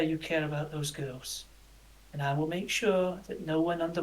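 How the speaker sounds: lightly voiced leader giving a considered promise; measured camp commander. Hannibal answers over Fleur's care for the girls, measured.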